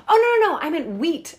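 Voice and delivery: high, loud "Oh, no, no, no" falling into "I meant wheat"; hurried, embarrassed fix of a mix-up; flustered correction. Retold or imitated. Retold panicked correction.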